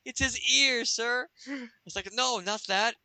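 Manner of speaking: high, put-on henchman voices; henchman and boss. Gang members sizing up the fake Hal Jordan. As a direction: pipe it up like comic goons.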